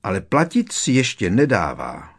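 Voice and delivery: high, loud squeak with big pitch swings; high-pitched indignant elf voice; squeaky indignation. A narrator's reading. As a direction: pipe up like an affronted little elf. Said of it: "zapištěla".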